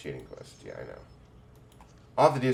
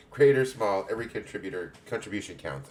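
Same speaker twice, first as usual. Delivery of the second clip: put-on lightly English-accented guildmistress greeting; a hint of a welcoming English matron; 3 semitones higher, 4 dB louder than usual. Guild head welcomes a young adventurer, light English accent. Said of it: "I'm making everybody have an English accent".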